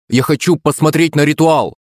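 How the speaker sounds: high, stubborn demand; insistent boy. A narrator's reading. Son demanding to see the ritual, insistent. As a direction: keep the pitch up like a child insisting.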